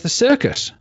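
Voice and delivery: high, loud incredulous question; the duck can't believe it's the circus; shocked duck. Retold or imitated. Duck surprised at punchline setup.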